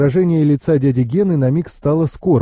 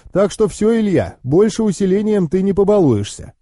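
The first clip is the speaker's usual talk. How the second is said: higher-pitched knowing uncle; explaining uncle; 5 semitones higher than usual. Acted.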